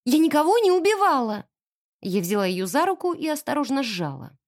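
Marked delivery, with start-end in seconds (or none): 0.1-1.4 louder, higher ringing denial; girl protests her innocence, ringing loud; ringing cry. Acted. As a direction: cry out your innocence clearly. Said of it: "сказала звонко".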